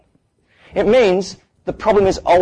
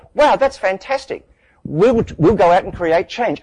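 higher, slow, starry-eyed gushing; mock enthusiasm; 4 semitones higher, slower than usual. Audience inspired by a talk, gushing with mock excitement. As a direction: gush like a newly inspired audience member. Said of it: "And then you guys go".

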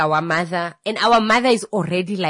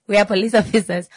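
laughing mock police; 4 semitones higher, 3 dB louder, much faster than usual.

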